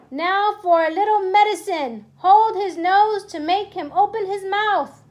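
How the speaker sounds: gloating witch. Acted. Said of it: "she said".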